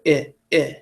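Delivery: "eh" as a brief, slack i like in kit; lazy short I. Shown as a demonstration. Teacher showing the other schwa takes no effort, lazy "eh". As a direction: say "eh" with the mouth barely moving. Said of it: "I don't even have to move".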